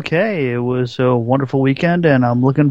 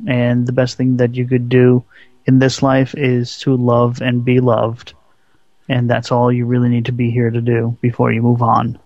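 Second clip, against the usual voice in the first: slow, mellow, measured reflection; low and mellow; 2 semitones lower than usual. Real, not acted. Co-host shares a saying about life after a friend's death, mellow. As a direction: take your time, pausing between phrases, low-toned. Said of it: "sounding really nice, low tone and mellow".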